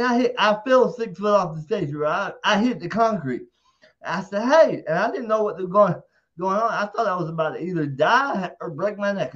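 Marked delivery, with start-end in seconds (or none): 4.4-4.8 loud shouted hey; louder, higher yell; retold yell. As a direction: call out in alarm. Yelling on hitting the concrete.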